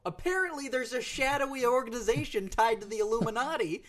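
high-pitched mock alarm; mock conspiracy revelation. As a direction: reveal it like a wide-eyed conspiracy theorist. Mock-incredulous conspiracy retelling.

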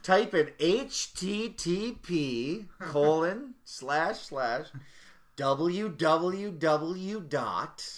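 slow, spelled-out tutorial read. Pretend. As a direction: dictate it slowly like a how-to video. Mock tutorial voice.

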